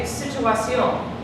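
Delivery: situación as situa-CIÓN, slowly; stress on last syllable. Shown as a demonstration. Teacher offers the true option last, final-syllable stress in situación. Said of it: "It's the last syllable".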